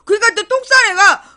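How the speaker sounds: ordinary talk, nothing marked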